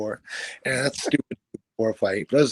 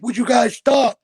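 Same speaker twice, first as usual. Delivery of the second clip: higher, louder mock plea from dad; pleading dad; 10 semitones higher, 8 dB louder, slower than usual. Dad in the middle begging the fighters, high mock plea. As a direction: play the small dad begging them to stop. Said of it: "My dad's like".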